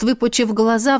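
ordinary delivery

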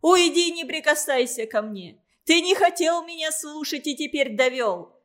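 high, loud, frantic accusation; hysterical shouting. A narrator's reading. Mother screams at Igor not to touch her, high and loud. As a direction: scream at him, falling apart. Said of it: "вскрикнула Любовь Михайловна".

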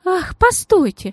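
put-on gushing lady begging the girl to stay; high slow lady's plea. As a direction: hold her back with a sugary cry. The lady stops her.

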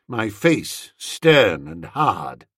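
usual speaking voice

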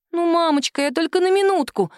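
put-on high, eager child's voice; little girl defending her doll. A daughter defends her doll to her mother, childlike and high. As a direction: plead like a stubborn little girl.

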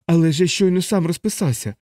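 high-pitched indignant protest; exasperated anger. Acted. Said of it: "геть розлютився капелан".

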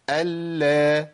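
ال with the L held, released into "la"; doubled lam with fatha. Shown as a demonstration. Teacher models doubled lam, same timing as still lam. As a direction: hold the L in ال, then open to a. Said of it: "نفس الزمن".

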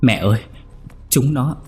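put-on high childlike voice, sobbing out the words; a frightened boy stammering to his mother; whimpering child. A narrator's reading. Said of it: "rấm rứt bảo".

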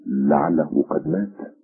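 put-on a young man gently asking about a lost son; tender. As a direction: ask it tenderly, slowing down. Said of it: "فقال الفتى في رقة".

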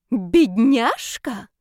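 very slow, loud, drawn-out sneer; rumbling mock pity. Heated brawler sneering at the girl's pity, loud and slow. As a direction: roll out the word in scorn. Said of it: "пророкотала распалившаяся скандалистка".

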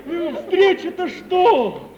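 high, laughing retelling of the prank; laughing while telling. Real, not acted. Petya laughing as he tells Aksyusha his prank. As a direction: laugh through the punchline.

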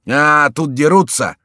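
loud, high, drawn-out exclamation; excited cry. A narrator's reading. Newcomer seeing his friends fighting, crying out loudly. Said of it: "вскричал Риберак".

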